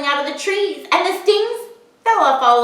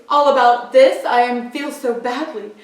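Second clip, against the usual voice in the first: elephant about to sneeze; 6 semitones higher than usual. Acted. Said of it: "said the elephant sadly".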